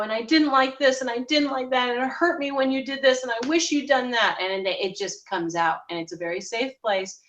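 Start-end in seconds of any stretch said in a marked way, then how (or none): 0.0-4.4 1 imitating a client's hurt outburst. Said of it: "and they go".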